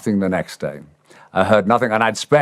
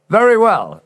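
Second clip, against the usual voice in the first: manager drawing it out; 13 semitones higher, 4 dB louder than usual. Retold or imitated. Manager teasing on phone.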